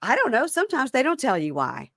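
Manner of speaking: high, pleading mock of the boyfriend; squeaky clueless boyfriend; whiny inmate voice. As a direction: play dumb in a high whine. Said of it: "And he goes".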